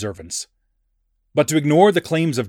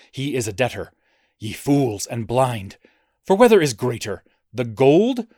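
mock biblical prophet. Reads Christ's woes in declamation.

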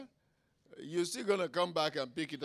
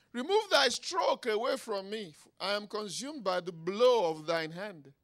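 loud, raised plea to God; pleading prayer; 5 semitones higher, 6 dB louder than usual. Acted. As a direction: cry out the psalm as a plea. David's desperate prayer read out.

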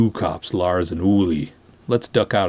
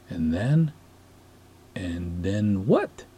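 groping to remember; 5 dB quieter, much slower than usual. Acted. Trying to recall lost memory.

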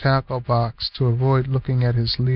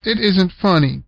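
put-on boy crying out; 5 semitones higher than usual. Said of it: "cried Cliff".

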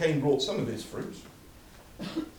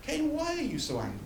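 raised pitch, tender coaxing as God; gentle pleading God; 5 dB quieter than usual. Acted. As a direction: plead gently with a sulking son. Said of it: "he says".

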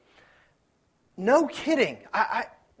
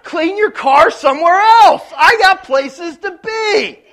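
high, loud, then slowed to a drawn-out rant; exaggerated impatience in traffic; mock angry rant; 9 semitones higher, 13 dB louder, slower than usual. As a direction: blow up at the guy, stretching the last words. Imagined rant at slow driver.

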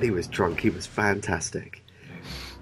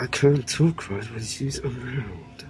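slow, higher, halting mumble; mumbling Faraday; 4 semitones higher, much slower than usual. Retold or imitated. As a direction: stammer it like a lovesick scientist. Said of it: "it's like".

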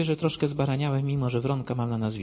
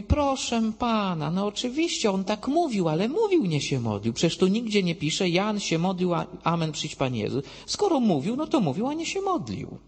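much higher voice of an insistent opponent; acted-out indignant quibbling; mock protest; 8 semitones higher, 3 dB louder than usual. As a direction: argue back in a high, exaggerated imitation. Witness argues back, acted.

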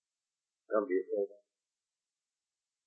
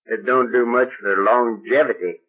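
ordinary talk

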